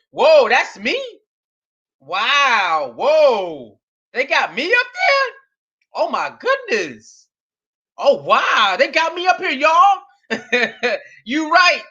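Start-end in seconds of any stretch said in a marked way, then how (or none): 0.1-10.0 mock awestruck tour visitor; pretend amazement. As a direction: play him thrilled to find himself there. Imagining his amazed reaction.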